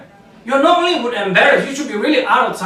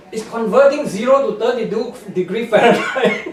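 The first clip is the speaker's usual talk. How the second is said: laughing. Real, not acted. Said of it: "I'm sorry I'm laughing".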